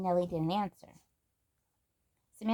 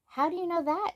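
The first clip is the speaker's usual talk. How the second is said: much higher astonished question; really surprised; 11 semitones higher than usual. Acted. Grandmary astonished at Samantha's secret, much higher question. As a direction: caught off guard. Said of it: "really surprised".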